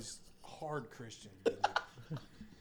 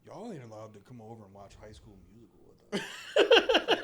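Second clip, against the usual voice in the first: mock whiny kid; 3 semitones lower, 8 dB louder than usual. Kid banning them from movie.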